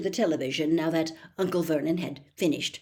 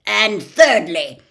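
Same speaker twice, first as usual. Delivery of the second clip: drawn out, much louder; slow loud emphasis; 3 semitones higher, 13 dB louder, slower than usual. A narrator's reading. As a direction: savour the blow slowly. Vernon laying down rules.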